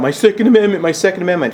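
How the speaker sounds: high, whiny mock chant; sarcastic singsong of a rights-obsessed gun owner. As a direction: parrot them like a spoiled complaint. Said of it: "don't get all up in arms about".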